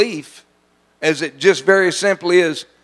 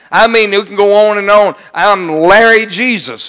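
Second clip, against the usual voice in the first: building preacher cadence; 4 dB louder than usual. Real, not acted. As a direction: lift it up like a revival call.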